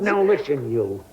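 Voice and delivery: sharp, high "Now" cutting in; angry warning. Acted. Neighbour cuts in on the other with a sharp warning. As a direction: stop her dead with a rising burst. Row between the two neighbours.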